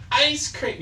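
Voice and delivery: high sing-song ice cream truck call; mock truck call. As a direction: chant it like the truck's tinny loudspeaker. Mimicking truck late at night.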